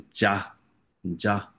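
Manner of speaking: ja voiced heavily, not cha; heavier ja. Shown as a demonstration. Teacher showing cha with superscript, heavier ja. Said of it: "比较重".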